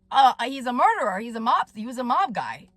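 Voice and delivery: ordinary talk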